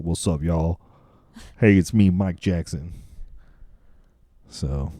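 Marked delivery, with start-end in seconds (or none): 0.0-3.0 hint of a deeper offstage voice. Pop star greeting people in person, lightly voiced real voice. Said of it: "where it's, like, deep".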